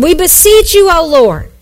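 a mild plea cried out to God, not shouted; lightly voiced desperate sailors praying; pleading cry to the Lord. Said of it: "they cried to the Lord".

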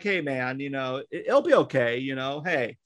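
put-on soft, gentle reassurance to an upset boy; softly reassuring a crying teenager in the truck; soothing a scared kid. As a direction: talk him down quietly and kindly. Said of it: "kinda talking to him like".

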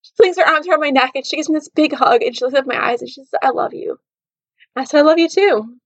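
fighting back tears as she retells it; close to tears. Real, not acted. Telling listeners about the camper's hug, close to tears. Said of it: "I'm gonna cry just talking about this".

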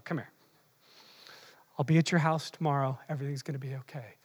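low, soft mock-tender pastor; mock soothing pastor. Pastor comforting a navel-gazing member, low, soft mock tenderness. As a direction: coo at them like a fussing pastor. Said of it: "Then the pastor comes out".

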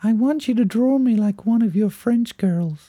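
high, put-on American movie voice; attempted American accent. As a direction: quote the film in a dodgy American accent. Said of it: "I think I did an American accent".

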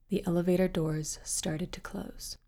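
steady, even read-aloud storytelling voice; story narration. A narrator's reading. Host reading a dark story to listeners, measured and hushed.

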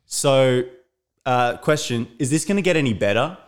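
heckling mother. Retold or imitated. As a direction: imitate a mother piping up to heckle. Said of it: "that mother perks up and goes".

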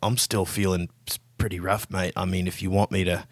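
tired, hesitant, low voice; a hint of a worn-out man; weary and battered. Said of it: "He looks down at his battered body and is like".

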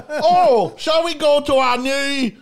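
hammed-up impersonation of a friend greeting his girlfriend; Dylan. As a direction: draw it out loudly, pretending to be him. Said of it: "pretending to be him sometimes".

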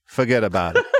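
jokey Chicago-accented "forget about it"; put-on Chicago accent. Shown as a demonstration. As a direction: say it as a mock Chicago catchphrase. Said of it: "In Chicago, we say".

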